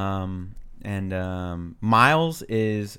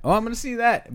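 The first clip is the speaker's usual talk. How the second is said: high, excited chime-in; imitated loud commenter; 12 semitones higher than usual. Host mimicking Miles at previews, loud chiming in. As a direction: pipe up in full voice over the previews. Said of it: "super loud".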